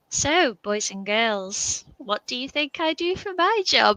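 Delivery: slow, singsong primary-school visit voice; lightly acted children's presenter, lifting high on the question; addressing young children. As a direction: draw the little ones in slowly. Acting out talk to younger pupils.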